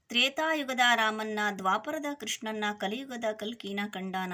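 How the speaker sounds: poem recitation. Acted. Recites verse before explaining it.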